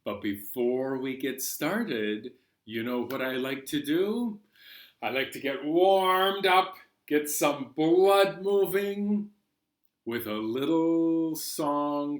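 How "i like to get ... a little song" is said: higher and louder, pumped up; energetic. Acted. Librarian warming children up for a song, energetic. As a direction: rev the kids up.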